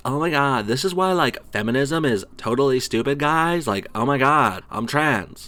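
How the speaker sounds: put-on ditzy Valley Girl accent; mocking a ditzy Valley Girl. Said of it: "she sounds like a Valley Girl most of the time".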